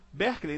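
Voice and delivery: BERKELEY read Brazilian-style as BEH-klay; Portuguese spelling-reading of Berkeley, BEH-r-klay; wrong pronunciation. Shown as a demonstration. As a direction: say Berkeley with open E and final 'lay'. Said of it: "não se fala Berkeley".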